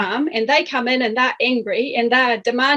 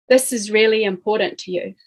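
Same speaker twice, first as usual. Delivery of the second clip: acknowledging. Shown as a demonstration. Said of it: "So this is me saying this".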